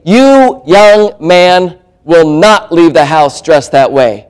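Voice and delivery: mildly hammed-up parental scolding; stern parent. Parent scolding teenage son.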